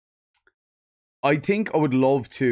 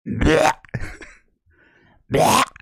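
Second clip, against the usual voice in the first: loud gagging retch; coughing up a hairball; 3 semitones higher, 5 dB louder than usual. Pretend. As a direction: hack it up like a hairball. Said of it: "I'm Gollum coughing up a hairball".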